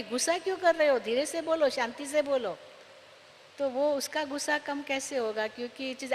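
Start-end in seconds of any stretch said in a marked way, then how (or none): 0.0-2.6 mildly raised, irritated scold; mock angry. Preacher imitating an angry reply that demands calm. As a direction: snap back while telling them to calm down. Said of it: "मैं भी गुस्से से ही बोल रही हूँ".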